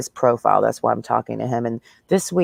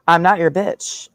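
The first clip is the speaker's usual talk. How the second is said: drawn-out, higher "not" with fake gasp; mock offended gasp; 5 semitones higher than usual. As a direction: play outraged diva, slowly.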